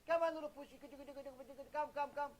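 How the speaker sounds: lightly voiced trainer coaxing an animal; a hint of a trainer calling his elephant along. Trainer calling the giant elephant, mild coaxing call.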